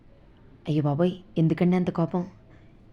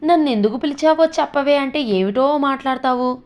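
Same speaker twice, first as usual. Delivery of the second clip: irritated; 7 semitones higher than usual. A narrator's reading. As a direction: snap at her, exasperated. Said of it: "విసుక్కున్నాడు వెంకట్రావు".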